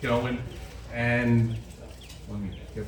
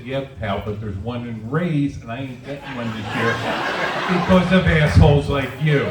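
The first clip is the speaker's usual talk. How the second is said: surly retort; 5 dB louder than usual. Retold or imitated. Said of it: "I said".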